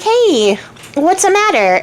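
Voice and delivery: high, lightly voiced little frog. Little frog popping up to the crying princess, high-pitched. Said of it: "a little frog".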